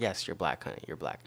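low, soft, matter-of-fact reassurance; gentle retold parent. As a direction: drop pitch, reassure gently. Retold parent answering confused child.

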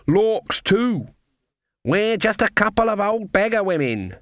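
put-on high, wheedling old crone; old woman voice. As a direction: play a harmless old beggar woman. Nanny and Granny old-woman voices.

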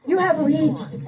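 slow mock voicemail greeting. Mocking his voicemail to the audience, slow robotic greeting. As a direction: drawl it like the automated voicemail lady.

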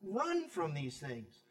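soft, hushed fatherly plea; pleading father. Retold or imitated. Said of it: "he's just saying".

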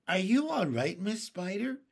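high, loud call down the side; shouting. A narrator's reading. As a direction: call out to someone far below. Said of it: "shouted the old green grasshopper".

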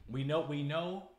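a slow, fervent declaration of faith; emphatic preaching. Real, not acted. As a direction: hammer it home like a preacher. Preaching the second coming.

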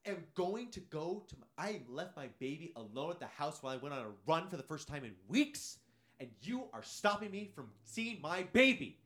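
high, melodramatic mock hysteria; hammed-up frantic indignation; freaking out. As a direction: imitate an outraged mother in a panic, pitch way up. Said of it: "Immediately starts freaking out".

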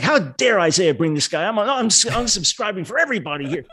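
mock-outraged viewer; imitated indignation. Ticked-off viewer announcing they are leaving, mock indignation. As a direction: play an offended viewer, pitch climbing. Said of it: "if you're really ticked at me".

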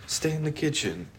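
put-on high-pitched joke Italian accent; mock Italian accent. Imitating Italians for a food joke, high mock Italian accent. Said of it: "I'm gonna go to fucking Italian".

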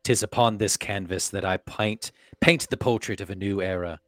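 grand theatrical declamation; hammy stage actor. Acted. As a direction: proclaim like a herald. Reads in Shakespearean English.

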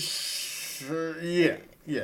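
hesitant, trailing uncertain agreement; doubtful. Shown as a demonstration. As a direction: sound unsure as you agree. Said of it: "That's how I did it. So there was a lot of doubt in that".

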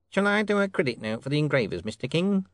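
high-pitched, eager clerk; deferential clerk. Acted. Clerk asks the king about credit, deferential.

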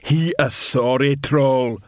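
lightly voiced troll, drawn out at the end; a hint of a lumbering troll, slowing down; troll watchman. Detritus warns the other trolls, troll watchman voice.

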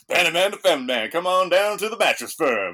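loud, high pitched mattress ad pitch. Pretend. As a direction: sell it like a cheesy TV commercial. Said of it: "It just sounds like an ad".

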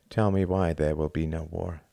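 hollow, level and drained; a defeated man asking for comfort, emptily. Acted. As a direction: say it with nothing left inside. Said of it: "he said emptily".

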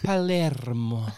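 Palermo said carefully with a rolled R; pronunciation demo. Shown as a demonstration. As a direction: say Palermo slowly, rolling the R. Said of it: "How to pronounce".

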